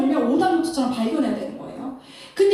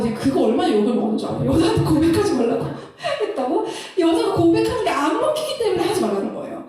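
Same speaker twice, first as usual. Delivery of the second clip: ordinary talk, nothing marked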